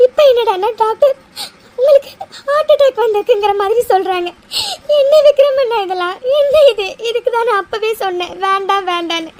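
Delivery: bitter tearful disbelief; crying outburst. Acted. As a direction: daughter breaking down over the doctor's news. Distraught daughter blames family.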